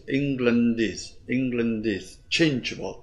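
"England is" joined as one unit; slow linking demo, "England" flowing into "is"; linked sounds. Shown as a demonstration. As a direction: run "England" straight into "is". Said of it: "thì luyến sang is".

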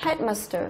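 "headmaster" stressed on its first part, head. Shown as a demonstration. Teacher repeats the example for students, "headmaster" stressed on head. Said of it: "Tức là rơi vào head này".

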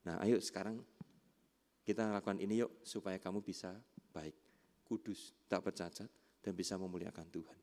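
low, soft encouragement; acted calm, coaxing parental tone; gentle parental coaching. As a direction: quietly invite a child to try together. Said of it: "misalkan anak".

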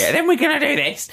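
high-pitched mock teacher voice; put-on high schoolteacher; horrible teacher. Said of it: "I'm making her sound nice".

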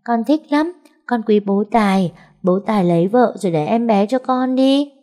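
put-on high, eager child's voice that speaks right away; a delighted small girl, all smiles; cheerful little girl. A narrator's reading. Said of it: "Con bé nhoẻn miệng cười nói ngay". (bé gái cười tươi, giọng cao háo hức)

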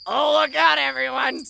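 sarcastic mock alarm. Mocking the rival's balloon fleet.

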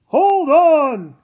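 loud urgent shout. Acted. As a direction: yell it over the crash. Car crashing.

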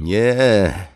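high, loud anguished cry. A narrator's reading. Captive watches his family's palace collapse, crying out. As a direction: wail it out in horror. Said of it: "krzyknął Tanalan".

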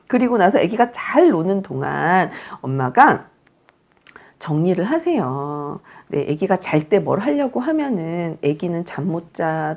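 ordinary delivery

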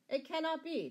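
high, loud flat refusal; firm declaration. A narrator's reading. Sheriff refusing the prisoner's plea, loudly declaring. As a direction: refuse forcefully, brooking no argument. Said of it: "declared the sheriff".

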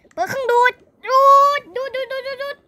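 high, excited chanting; machine activation call. Pretend. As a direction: announce the suction like a cartoon hero. Switching on pretend suction machine.

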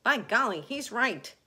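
loud, high astonished agreement; centipede's high, loud outburst; excited cry. Acted. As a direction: exclaim it as a sudden realisation. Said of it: "cried the centipede".

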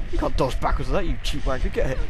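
loud, indignant shouting at a foe; outraged gamer yell; combat yelling. Pretend. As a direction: shout abuse at a dodging enemy. Scolding enemy during game fight.

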